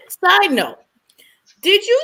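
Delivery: a quick breathy whisper for the aside. Real, not acted. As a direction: drop to a whisper to slip in a side note. Whispered aside mid-story.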